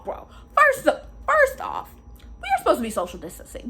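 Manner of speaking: half-wailing frustration; exasperated outburst. Real, not acted.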